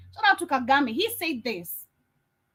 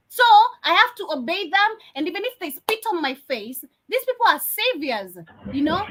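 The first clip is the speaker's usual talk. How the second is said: sarcasm. Pretend. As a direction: parrot the despots' line in mockery. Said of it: "understand the sarcasm".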